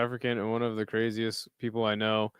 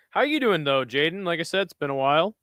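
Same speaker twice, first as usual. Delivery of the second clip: "how you doing" New York wiseguy, higher; New York accent; 4 semitones higher than usual. Acted. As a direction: greet him like a New York guy. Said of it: "Sorry, that was bad".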